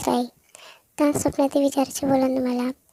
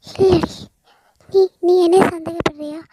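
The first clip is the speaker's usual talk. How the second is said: indignant protest; 5 semitones higher, 5 dB louder than usual. Acted. Stella protests Veda's doubt.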